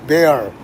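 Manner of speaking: roaring stereotype of Russian talk; put-on bear growl; mock Russian growl. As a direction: growl like a caricature bear, then the word. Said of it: "think we talk like this".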